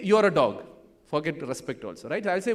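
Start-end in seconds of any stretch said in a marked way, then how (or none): 0.0-0.6 a loud insult shown to the crowd; loud demo insult. Shown as a demonstration. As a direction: say it out loud and firm. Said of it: "just say".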